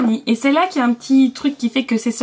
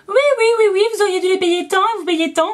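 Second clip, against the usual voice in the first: imitating the cashier; 8 semitones higher than usual.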